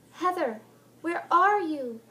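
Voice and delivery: loud high distant call; ghostly cry. Acted. Helen's chilling cry from the rain. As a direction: call her from the water.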